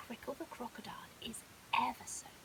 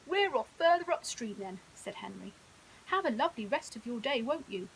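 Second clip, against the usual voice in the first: hippo voice; 7 dB louder than usual. Acted. Henry leaving.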